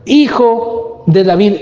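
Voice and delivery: pleading cry to Jesus. Retold or imitated. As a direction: call out like the blind beggar. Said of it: "gritaba y decía".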